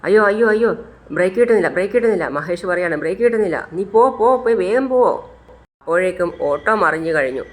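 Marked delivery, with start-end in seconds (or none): 0.1-2.3 panicked cry. Acted. Brakes fail in runaway auto. 3.0-5.0 panicked urging. Acted. Brakes fail, urging on.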